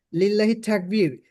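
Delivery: তাকবীর with an English puffed t, slow; mock example of over-aspirated তাকবীর; wrongly anglicised sounds. Shown as a demonstration. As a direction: say লিল্লাহি তাকবীর slowly with misplaced English aspiration. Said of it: "এভাবে কেউ বলবেন না কিন্তু".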